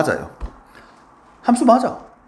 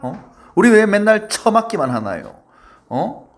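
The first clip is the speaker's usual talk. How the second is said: rebelling codomain. Acted. Codomain revolting against always being hit, mock indignant protest. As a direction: playfully act out an aggrieved rebel. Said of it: "공역들이 반란을 일으킵니다".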